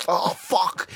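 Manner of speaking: soft, mock-dismayed cry; acted dismay. Comic acting out an accident on the way home, mock dismay. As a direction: curse under a sudden mishap. Acts out soiling oneself on way.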